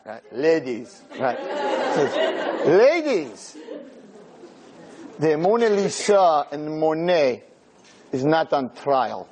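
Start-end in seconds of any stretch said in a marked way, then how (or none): 2.6-9.3 calm rebuke. Retold or imitated. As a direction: put them in their place slowly, with composure.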